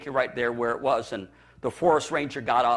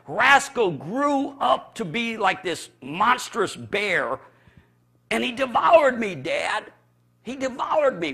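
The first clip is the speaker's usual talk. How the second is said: put-on high, slow, scared boy's voice, rising to a cry on devoured; a child still shaken by the nightmare; voicing a terrified son; frightened child; 8 semitones higher, 4 dB louder, slower than usual. Son retelling nightmare to dad.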